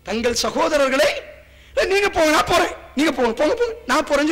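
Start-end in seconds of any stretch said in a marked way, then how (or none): 1.9-4.3 urgent brave plea. Retold or imitated. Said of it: "சொல்லி முன்னாடி வந்து சாவுறாங்க".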